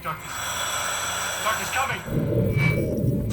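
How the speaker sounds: slow, drawn-out eerie narration with a hint of menace; lightly voiced demonic storyteller, stretching each word. Twisted Alan narrating Wade's doom, lightly demonic. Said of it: "Like a demonic storyteller".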